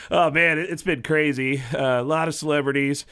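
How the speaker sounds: lightly voiced Tom Arnold dishing gossip; Tom Arnold impression. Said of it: "Can you join us as somebody famous".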